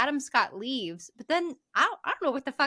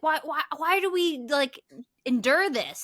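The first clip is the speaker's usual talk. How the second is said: mock upset kid; 3 semitones higher, 3 dB louder than usual. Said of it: "he's saying".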